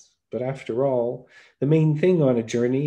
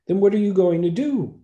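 put-on very old man voice; 9 semitones higher, 5 dB louder than usual. Old man asks the fool.

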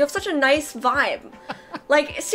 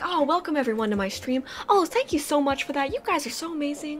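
imitating calm streamer; 6 dB quieter than usual. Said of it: "He's like".

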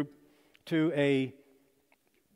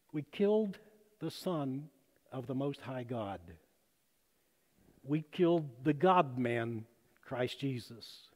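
hushed confession; 4 semitones lower, 6 dB quieter than usual. Retold or imitated. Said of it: "And it got real quiet".

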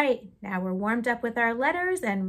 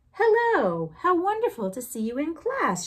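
high bright loud hello, chirped; chirpy greeting; 8 semitones higher, 6 dB louder than usual. Acted. Bird happily greeting Rocket in class, high chirpy hello. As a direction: greet your pupil with delight. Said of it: "she chirped".

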